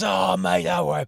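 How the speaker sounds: high, breezy brush-off in his voice; imitating Hask, airy. Retelling the phone call, mimicking his friend's high breezy dismissal. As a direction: wave it away like it's nothing. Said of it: "He goes".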